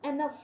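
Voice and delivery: "enough" ending in a clear F sound. Shown as a demonstration. Teacher showing students the GH in enough, "enough" ending in F. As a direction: say "enough" with the final gh as f. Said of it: "G H at the end of enough is pronounced as".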